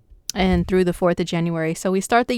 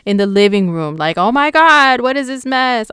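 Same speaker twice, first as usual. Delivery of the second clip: dismayed tidy-up rant, rising at the end; lightly hammed-up disgust at a messy living room; mock neat freak; 4 dB louder than usual. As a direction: play a fussy roommate finding the mess. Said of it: "This is energy just like".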